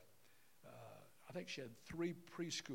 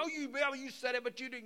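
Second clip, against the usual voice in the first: hammed-up yelling, higher and louder; psycho husband; 10 semitones higher, 9 dB louder, faster than usual. Husband shouting at wife in the steak fight, mock rage. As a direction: keep the mock row going at full volume. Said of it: "and it's psycho".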